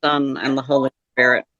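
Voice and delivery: steady measured recited prayer. Acted. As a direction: recite the Our Father calmly. Closes the call with prayer.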